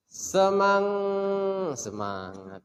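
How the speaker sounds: high, energetic cheer of the word; spirited call. Shown as a demonstration. Teacher rousing sleepy girls, spirited call. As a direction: pump up the class with energy.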